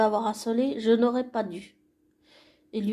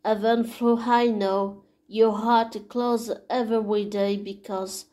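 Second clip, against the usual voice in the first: reading song lyrics. Acted. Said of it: "je vais vous la lire en anglais".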